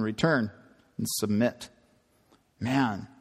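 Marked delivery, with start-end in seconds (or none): 0.0-1.7 low, stern policeman; lightly voiced stern cop. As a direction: order it like a cop. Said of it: "now he sounds like a policeman".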